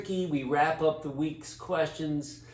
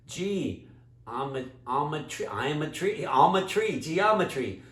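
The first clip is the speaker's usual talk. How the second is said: talking tree. Acted. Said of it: "the big tree says".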